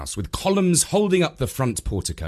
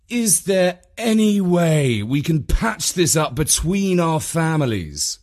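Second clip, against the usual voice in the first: slower, higher-pitched appeal; conciliatory visitor; 6 semitones higher, 3 dB louder than usual. A narrator's reading. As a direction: appeal for peace with a lifted pitch. Visitor pleads for peace.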